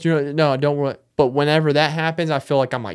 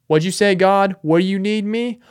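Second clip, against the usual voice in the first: higher, eager reply to a call; eager soldier; 7 semitones higher, 3 dB louder than usual. Acted. God's soldier answering God's call, eager. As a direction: pipe up, ready for orders.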